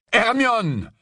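high, sharp protest; reproche crié. Acted. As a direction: call out to rein her in. Harry intervient, choqué. (cri de reproche, voix haute)

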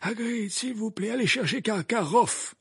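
high, firm repeated order; curt insistence. A narrator's reading. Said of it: "répéta sèchement Dumbledore".

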